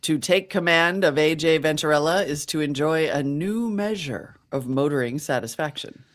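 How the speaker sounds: put-on old-time radio ad voice in mid-Atlantic accent. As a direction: read it like a thirties mid-Atlantic announcer. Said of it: "It's either mid-Atlantic ac-, accent or slightly British".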